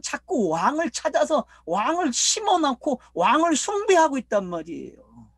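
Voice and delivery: forceful preaching. Acted. Preacher to congregation about freedom through Jesus, forceful preaching. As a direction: press the point with mounting intensity.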